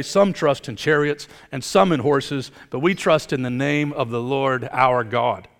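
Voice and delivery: slow, lofty reading of "Some trust in chariots"; poetic reading. Acted. Preacher reads the psalm verse to the congregation, slow and poetic. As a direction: savor each phrase like poetry. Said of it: "in a very beautiful way, a poetic way".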